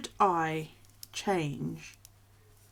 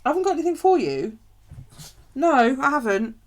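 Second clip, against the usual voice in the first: exasperated; 7 semitones higher, 9 dB louder than usual. Retold or imitated. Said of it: "I'm like".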